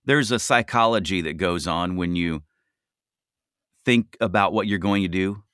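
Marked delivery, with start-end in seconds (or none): none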